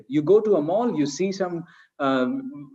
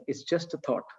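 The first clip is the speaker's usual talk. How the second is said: mantra; 9 dB quieter than usual. Shown as a demonstration. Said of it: "mantra that I use".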